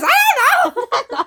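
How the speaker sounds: high, slow laughing mimicry; slightly wrong copied voice. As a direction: copy the voice badly. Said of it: "Why are you mimicking my voice?".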